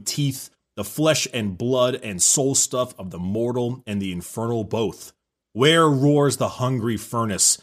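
grand, ominous read-aloud; dramatic reading. Acted. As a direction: read it like an epic villain intro. Reads the book's dramatic intro.

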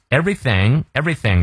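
everything with a clear th, tongue between the teeth; tongue-bitten th. Shown as a demonstration. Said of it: "everything咬舌".

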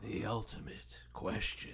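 slow, hushed stage whisper; dramatic whisper. Pretend. Host unveils the big question, dramatic whisper. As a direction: whisper it like a dreaded reveal. Mock-dramatic segment announcement.

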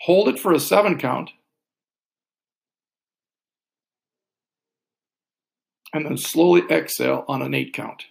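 calm, paced counting with long pauses; slow breath counting. Shown as a demonstration. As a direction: guide the breath gently and slowly. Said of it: "I'll walk us through all these".

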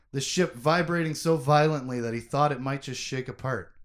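steady audiobook reading; story narration. A narrator's reading. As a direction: read the scene like an audiobook. Reads a novel scene aloud.

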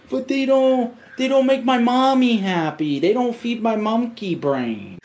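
put-on high, whiny little-kid voice; lightly whiny kid voice mocking himself; whiny child. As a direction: pout like a toddler denied a toy. Whiny childish retort to friend.

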